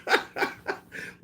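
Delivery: high, drawn-out cry of disbelief; shocked disbelief. Acted. Onlookers reacting to the boxer, acted high-pitched shock. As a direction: act out a stunned onlooker, stretching it way up high. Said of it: "motherfuckers would look at Mike like".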